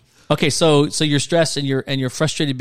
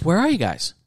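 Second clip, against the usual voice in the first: voicing God calling; 6 semitones higher than usual. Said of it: "he goes".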